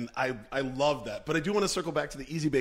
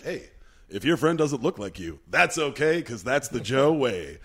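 cartoon PSA voice; 7 dB louder than usual. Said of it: "was also like".

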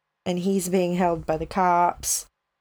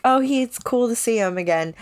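lightly giddy, quick and higher-pitched; a touch of giddy excitement, pitched up; 5 semitones higher, faster than usual. Retold or imitated. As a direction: quote your own mild giddy delight, lifted and quick. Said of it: "Oh, giddy".

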